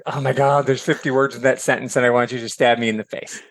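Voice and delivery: a hint of a fed-up reader; exasperated groan. Reader worn out by Faulkner's sentences, mild mock exasperation. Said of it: "and you're like".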